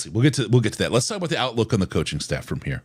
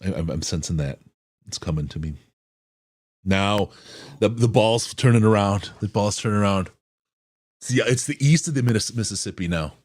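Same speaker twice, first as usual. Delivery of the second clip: fortune teller voice. Pretend. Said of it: "That's my crystal ball".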